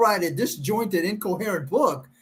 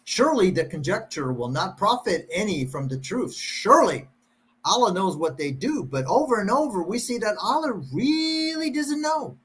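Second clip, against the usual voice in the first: comical reading. Pretend. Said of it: "improvise and kind of make it comical".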